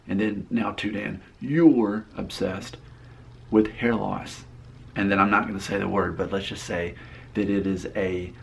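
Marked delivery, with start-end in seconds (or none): 1.4-4.4 You're stretched out slowly; stress on You're. Acted. Reading a misspelled comment to viewers, You're slowly stressed. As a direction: drag out You're to flag it. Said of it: "point out that it's misspelled".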